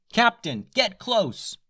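high calling shout; commanding yell. A narrator's reading. Stella ordering the captain closer, shouting. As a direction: call the order across. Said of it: "yelled Stella".

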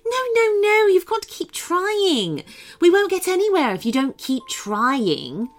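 high, loud, insistent pep talk; rally him firmly; rousing beach woman. Acted.

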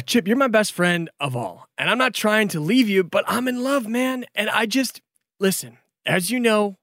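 high, gushing apologetic dragon; lovestruck dragon Brandon. Acted. Dragon Brandon apologizes to friends, lovesick. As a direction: swoon about his love.

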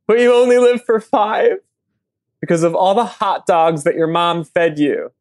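earnest, overblown eulogy reading; reading a poem. Acted. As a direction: read it like a solemn tribute. Reads eulogy poem for dog.

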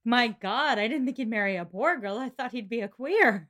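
put-on voice of comic disbelief; mock-scandalized character. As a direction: play up the shock for laughs. Acting out a scandalized reaction.

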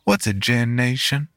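put-on suspicious boy. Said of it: "he asked suspiciously".

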